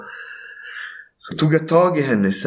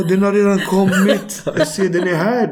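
breathless news; 7 semitones higher than usual. Retold or imitated. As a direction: announce it half in shock. Telling the operator baby arrived. (ljus, chockad rapport)

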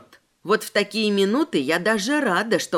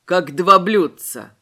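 smiling; 3 semitones lower, 6 dB louder, slower than usual. Acted. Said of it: "улыбнулся парень".

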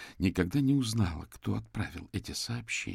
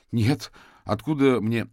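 defensive denial; 4 semitones higher, 8 dB louder, slower than usual. Acted. Suspect denies under pressure.

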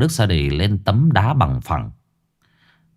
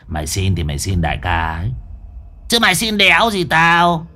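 snarling henchman, rising at the end; hissed through teeth; 3 semitones higher than usual. A narrator's reading. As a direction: spit the words through clenched teeth. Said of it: "nó rít qua kẽ răng".

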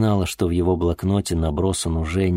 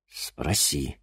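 soft request; 3 semitones lower, 7 dB quieter than usual. Acted. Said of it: "попросил Денис".

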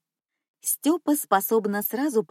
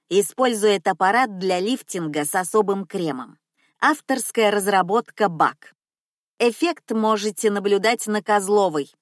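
put-on loud old cleaner; 4 dB louder than usual. Cleaner lecturing customer loudly.

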